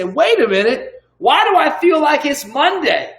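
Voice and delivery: high, dramatic build to a drawn-out cry; hammed-up realization. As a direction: build from puzzled to triumphant, pitch climbing. Acts out rallying self-talk.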